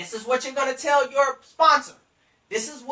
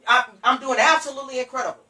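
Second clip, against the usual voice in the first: emphatic, energetic enthusiasm; upbeat sponsor; 2 semitones higher, 4 dB louder, faster than usual. Shown as a demonstration. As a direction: answer as if thrilled to be called. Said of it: "you need to be doing amazing".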